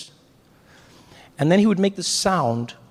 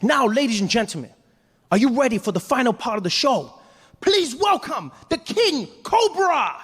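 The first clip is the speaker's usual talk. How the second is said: showman announcer; 8 semitones higher than usual. Retold or imitated. Host introducing the king cobra, high grand announcer voice. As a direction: build up the final act. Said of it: "he's like".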